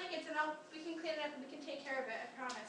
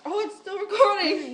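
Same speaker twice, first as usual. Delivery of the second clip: surprised; 5 semitones higher, 18 dB louder than usual. Real, not acted. Surprised it still records.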